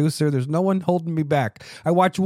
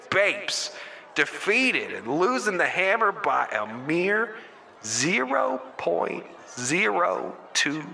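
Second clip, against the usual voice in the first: dramatic recap voice; 2 semitones higher than usual. Acted. Host reads the league finale in a dramatic voice. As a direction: build the tension of a sports recap. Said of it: "I didn't know I could do that, that voice".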